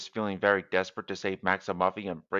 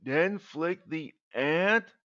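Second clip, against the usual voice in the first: puzzled; 7 semitones higher, slower than usual. Acted. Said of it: "puzzled Maximuffy".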